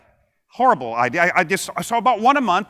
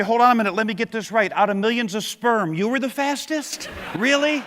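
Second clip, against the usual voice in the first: sarcastic; 2 semitones higher than usual. Retold or imitated. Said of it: "tap them on the shoulder and say".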